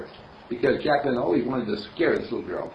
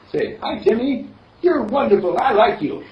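higher, louder cheerful coaxing; coaxing Mister Candle; 9 semitones higher, 5 dB louder than usual. Acted. Mister Candle coaching the girl to greet her brother, coaxing. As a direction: coax her sweetly to greet him. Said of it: "he says to the little girl".

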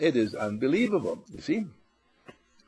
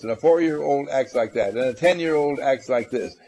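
mock conventional thinker; 4 dB louder than usual. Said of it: "all those concepts that said".

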